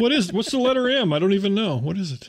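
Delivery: high, puzzled mock fumbling; confused old user. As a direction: play someone lost at a keypad. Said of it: "I have to actually go".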